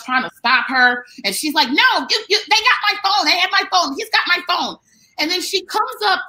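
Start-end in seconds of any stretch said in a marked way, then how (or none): 1.7-4.8 high, whiny accusation; lightly voiced drunk accuser, pitched up; mock drunk woman. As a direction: mimic a drunk woman insisting they took her phone.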